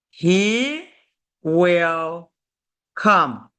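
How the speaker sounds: "He... will... come", each word set apart by a pause. Shown as a demonstration. Teacher showing learners a future sentence, word by word. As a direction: dictate "He will come" one separated word at a time.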